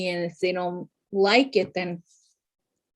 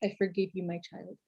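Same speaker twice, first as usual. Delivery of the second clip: mock priest; 10 dB quieter than usual. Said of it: "I'd be like".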